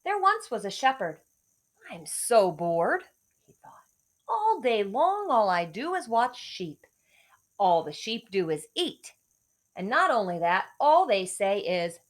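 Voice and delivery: lively storybook read with voiced bits; reading to children. A narrator's reading. Teacher reading a fable aloud to second graders.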